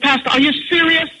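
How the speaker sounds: high, disbelieving appeal; mock disbelief at the pastor; incredulous. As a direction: ask like you can't believe it. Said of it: "I was like".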